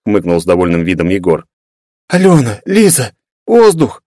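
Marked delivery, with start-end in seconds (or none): 2.1-4.0 high, slow, squeezed plea for air; girl pleading with hugging friends; plaintive plea. Acted. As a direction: beg them to let go, smothered. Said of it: "жалобно попросила Вета".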